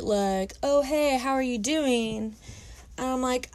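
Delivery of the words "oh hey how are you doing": lightly voiced smooth-talking fuckboy; mock his slick casual greeting. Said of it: "like, fuckboy bullshit".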